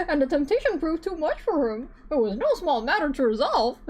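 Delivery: Ayato voice. Acted. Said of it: "So this is the best I got".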